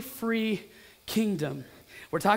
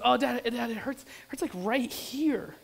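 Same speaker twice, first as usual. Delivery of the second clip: lightly voiced whining kid; a hint of a little boy in pain; young son; 3 semitones higher, 3 dB quieter than usual. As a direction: imitate a child trailing into a soft, slow complaint. Son complaining in retold dialogue.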